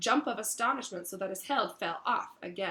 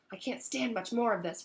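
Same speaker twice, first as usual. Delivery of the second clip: teeth chattering; 3 semitones higher than usual. Acted. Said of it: "Ron muttered, his teeth chattering".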